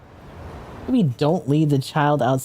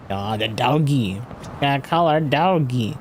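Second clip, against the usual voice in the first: squeaky praising a dog. Real, not acted. Streamer cooing at game dog.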